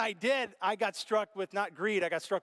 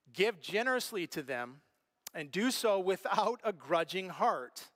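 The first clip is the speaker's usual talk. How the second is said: scripture reading. Acted. Reads scripture verse slowly.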